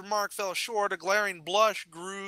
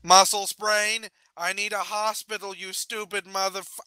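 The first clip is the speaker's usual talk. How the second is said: acted indignant anger; 5 dB louder than usual. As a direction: berate the fool who hurt you. Injured pony berates her helper.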